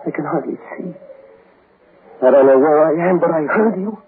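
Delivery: clutch at the voice you hear; high frantic wonder. Acted. Mac answers his dead wife's call, high and desperate.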